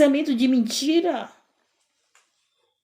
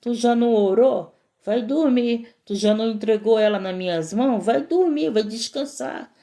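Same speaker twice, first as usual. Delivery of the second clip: gentle reassurance. Retold or imitated. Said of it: "E o Senhor disse".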